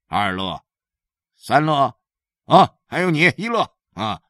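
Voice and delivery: father lecturing his hungry sons, pitch jumping; lightly voiced scolding dad, bursts of high emphasis; stern hungry father. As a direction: grumble and give orders to the children.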